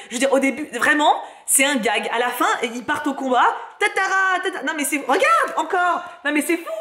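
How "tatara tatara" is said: high-pitched mock shout of the name; mock battle cry. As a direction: cry out the name like manga heroes charging. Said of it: "ils crient en boucle".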